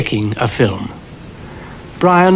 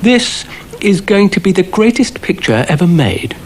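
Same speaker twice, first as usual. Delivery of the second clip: pompous boast; 7 semitones higher than usual. A narrator's reading.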